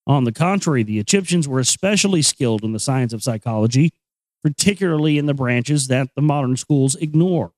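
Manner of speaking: measured, even book-reading voice; reading aloud. Acted. Reading chapter three of the Kybalion to listeners in a measured voice. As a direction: read the old text steadily and clearly.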